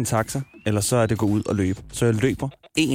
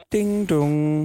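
sung-out ding dong, higher; imitated chime; 5 semitones higher than usual. Telling what passengers hear at the stop, imitated chime. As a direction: mimic the station chime, drawn out. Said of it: "Og så kan man høre".

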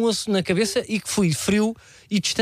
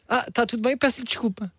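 flustered apology; 4 semitones higher than usual. Retold or imitated. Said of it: "E eu assim".

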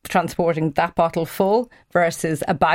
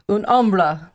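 Italian-accented "un ombra", vowels rounded and open; slower than usual. Shown as a demonstration. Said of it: "in my best Italian accent".

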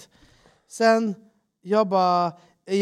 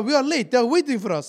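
urgent insisting; 6 semitones higher than usual. Retold or imitated. Retold pitch.

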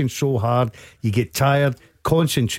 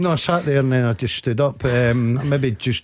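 real breathlessness, catching air between words; slightly winded, pushing words out on short breaths. Real, not acted. Pundit teased by host for sounding out of breath. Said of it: "You, you genuinely sound out of breath".

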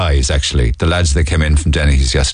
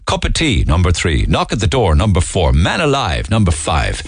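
bingo caller. Pretend. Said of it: "I wouldn't mind doing a bingo call".

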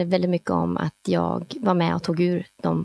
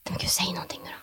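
much softer, unvoiced impatient whisper; pleading whisper; 9 dB quieter, much faster than usual. Hunter whispering as the radio stays silent. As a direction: whisper it begging for an answer.

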